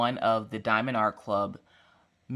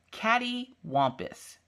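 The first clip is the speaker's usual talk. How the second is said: drawn-out announcement; 9 semitones higher, 3 dB quieter, much slower than usual. Real, not acted. Vlogger unveiling the contest word, drawn out. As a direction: announce it slowly, starting high.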